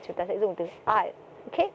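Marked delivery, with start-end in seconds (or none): 0.9-1.1 "aisle" with the S left silent; "aisle" pronounced like "I'll", S unsounded. Shown as a demonstration. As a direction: say "aisle" without any s sound. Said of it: "từ này thì cái chữ S sẽ là âm cầm".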